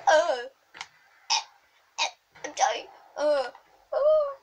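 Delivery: mock dying gasps and groans. Gamer mimics his wounded character dying, hammed-up groans. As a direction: gasp and moan like a dying game soldier.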